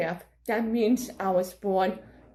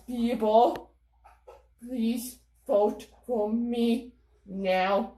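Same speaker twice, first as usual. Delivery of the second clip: mind trick voice; slower than usual. Pretend. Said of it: "I'll use my voice".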